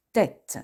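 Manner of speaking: "tête" with an open è vowel. Shown as a demonstration. Teacher gives an example, "tête" with open è. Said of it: "c'est-à-dire un est ouvert".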